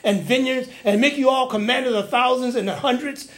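acted berating of his own people; mildly worked-up accusing questions. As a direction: challenge them indignantly as an aggrieved king. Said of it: "So he's berating his people".

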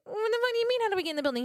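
loud, high-pitched disbelief; incredulous outburst. Retold or imitated. Visitor to the funeral director who asked how they entered, incredulous outburst. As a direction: throw the question back, astonished. Retold startled reply to director.

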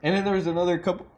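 talking with hiccups; interrupted by hiccups. Real, not acted. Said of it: "I got the hiccups".

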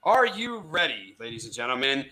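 slow, drawn-out showman call; ringmaster. Acted. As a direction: hype up the crowd. Game show host hosting.

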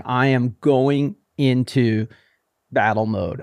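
slow, deliberate declaration; retold battle-ready resolve; determined self-talk. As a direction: space the words out with resolve. Acts out self-talk before hard section.

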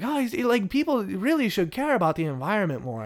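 high-pitched hammed-up French accent; Curie, French accent. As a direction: put on an exaggerated, lilting French voice. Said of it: "this incredibly racist French accent".

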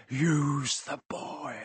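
slow, soft, otherworldly hiss; a ghostly voice from inside someone else; slow, soft, sinister command; eerie disembodied voice. Acted. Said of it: "a voice answered".

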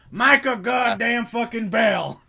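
high, loud, slow spat-out name; disgusted emphasis. Real, not acted. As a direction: spit out each word of the name in contempt. Venting hatred for game villain.

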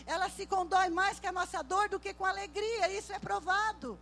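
loud, high, impassioned sermon delivery; full-force preaching. Acted. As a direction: proclaim it to the congregation, building to a cry.

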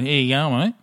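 mumbled broad Aussie greeting; dad's lazy Australian "Hey, Jan, mate"; imitating dad. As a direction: slur it like one word. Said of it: "That's his one".

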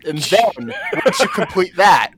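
lightly voiced official reading out rules; mock official instructions. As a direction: spell out the procedure with mock formality. Reciting a form's absurd instructions.

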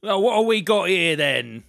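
put-on old school bobby. Shown as a demonstration. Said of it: "old school".

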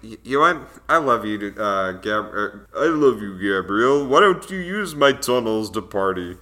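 lightly imitated Stallone-style mumbling accent; a loose, half-hearted Stallone accent; Sylvester Stallone accent. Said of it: "a good Sylvester Stallone accent".

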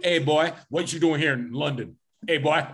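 hammed-up Southern accent, half-joking; mock Southern accent. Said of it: "a Southern accent".

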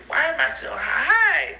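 loud, cracked cry; tearful loud plea. Real, not acted. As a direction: wail the question. Crying out.

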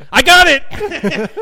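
slow, high, loud, laughing triumph; Roscoe's hammed-up eureka; eureka moment. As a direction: drag it out like finding gold. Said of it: "you hear Roscoe saying".

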